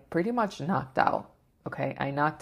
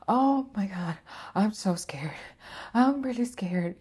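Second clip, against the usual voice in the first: higher, mildly panicky whimper; retold frightened crying; 6 semitones higher than usual. Telling what they said while screaming, mock frightened cry. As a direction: lightly act out being scared. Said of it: "I'm screaming, though, at the same time".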